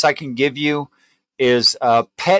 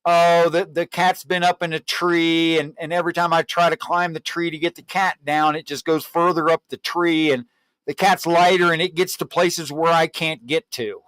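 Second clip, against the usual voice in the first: gentle breaking of news; 4 semitones higher than usual. Shown as a demonstration. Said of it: "You could say something like".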